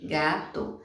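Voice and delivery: "gato" as GA-TO, in two beats; teacher dividing "gato" into its pieces; split into syllables. Shown as a demonstration. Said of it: "separar as sílabas".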